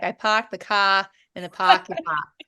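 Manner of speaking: lightly put-on Boston accent; imitated Boston accent. Host teasing a Boston guest, mock Boston accent. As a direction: drop the Rs like a Bostonian. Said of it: "I wonder if she'll say".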